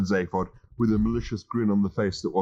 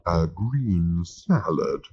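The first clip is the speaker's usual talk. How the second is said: disapproving; much slower than usual. Acted. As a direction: drag out "A green salad" in mild disdain. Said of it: "rolling his eyes disapprovingly".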